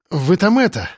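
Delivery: panting between words; breathless after the run; out of breath. Acted. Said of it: "переводя дыхание".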